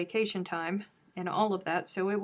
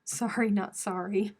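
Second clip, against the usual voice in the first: sarcastic. Pretend. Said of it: "Did you hear all that sarcasm?".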